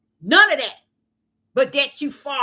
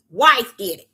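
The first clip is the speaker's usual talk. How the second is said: mock blaming quote; 7 dB louder than usual. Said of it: "Bringing Yah to say".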